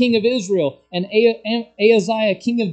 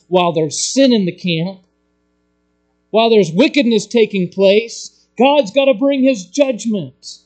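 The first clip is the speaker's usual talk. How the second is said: preaching at full force; 3 semitones higher, 6 dB louder than usual. Real, not acted. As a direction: thunder the judgment from the pulpit. Preaching climax on judgment.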